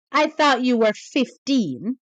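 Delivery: dead serious, grave delivery. Retelling what a man said after a woman told him she was twenty-two, mock-serious. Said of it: "he goes in a serious voice".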